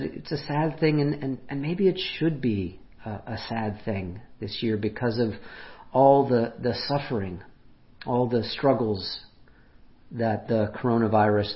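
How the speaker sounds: calm, matter-of-fact and accepting; normalizing. Retold or imitated. Quoting Nadal on the pandemic's sadness, calmly normalizing. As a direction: say it as something that simply belongs. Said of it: "in a very normalizing kind of way".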